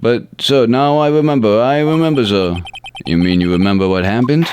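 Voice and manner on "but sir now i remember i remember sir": high, rising rookie recall; excited officer. Acted. Officer telling the detective he remembers, high and eager. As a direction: burst out with the memory.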